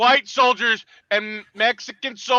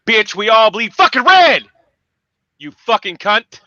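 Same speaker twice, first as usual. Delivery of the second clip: angry outburst; 5 dB louder than usual. Real, not acted. Angry rant at politician.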